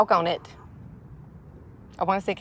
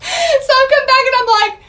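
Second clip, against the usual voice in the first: high, breathy mock-whispered tease; teasing squeal; 4 dB louder than usual. Mock teasing husband about sausage.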